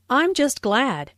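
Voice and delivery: glad said with weight; stress on glad. Shown as a demonstration. Teacher demos the stress on glad. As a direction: lean on the word glad. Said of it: "Notice the stress on glad".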